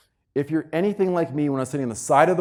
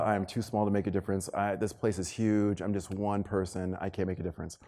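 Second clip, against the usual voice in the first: quoting nurse; 6 semitones lower, 8 dB quieter than usual. Retold or imitated. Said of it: "nurse ... said".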